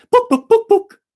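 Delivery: long run of loud high clucks; chicken squawk. Acted. The chicken orders a pile of books, squawking. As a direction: cluck on and on like a hen.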